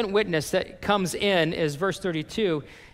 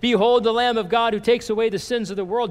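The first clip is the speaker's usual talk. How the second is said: louder, higher proclamation like John the Baptist; proclaiming John; 5 semitones higher, 6 dB louder, faster than usual. Retold or imitated. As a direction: announce it to the crowd like a prophet. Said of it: "And then John says".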